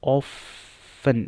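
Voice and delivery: often as "off-un", drawn out in two parts; silent T. Shown as a demonstration. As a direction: model often slowly without the T. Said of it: "often and often". (often बिना "ट" के, "ऑफ़न")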